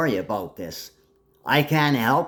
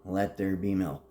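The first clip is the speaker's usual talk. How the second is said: commanding miracle words; 4 semitones lower, 7 dB quieter than usual. Retold or imitated. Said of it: "and said".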